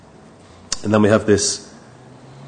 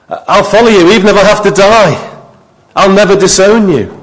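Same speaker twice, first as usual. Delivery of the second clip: bold vow; 7 semitones higher, 5 dB louder than usual. Retold or imitated. Peter's vow voiced again.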